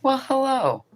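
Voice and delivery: big theatrical greeting, high and loud; hammy stage actor. Pretend. Greeting chat viewers in a put-on voice.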